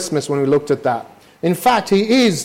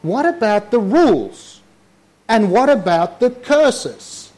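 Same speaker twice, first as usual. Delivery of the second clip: mock alarmed objection, a bit higher; hammed-up protest to Jesus about the rules; protesting Jewish listener; 3 semitones higher than usual. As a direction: play a startled listener crying "wait a minute". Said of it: "they would be going".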